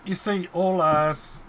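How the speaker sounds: buzzy distorted audio; bee voice. Real, not acted. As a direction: sounds like a buzzing bee. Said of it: "You sound like a, a bee".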